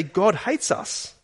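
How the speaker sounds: mock despair of the Israelites; grumbling Israelites. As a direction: voice their grumbling in the tents. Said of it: "They say".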